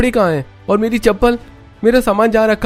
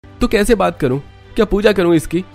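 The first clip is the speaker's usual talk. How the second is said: loud, much higher, defiant angry shouting; angry retort; 8 semitones higher, 4 dB louder than usual. Acted. Son argues back at his mother, angry loud retort. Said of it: "Rohan का गुस्सा देखकर".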